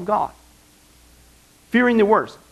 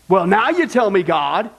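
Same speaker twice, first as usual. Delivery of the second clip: impatient complaint; 4 semitones higher than usual. Retold or imitated. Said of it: "people with that kind of attitude".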